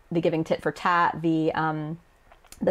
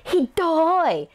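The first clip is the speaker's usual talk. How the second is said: high anime-style outcry; indignant exclamation; 10 semitones higher, 3 dB louder than usual. Acted. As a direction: cry out at being wronged. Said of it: "gonna yell in indignation".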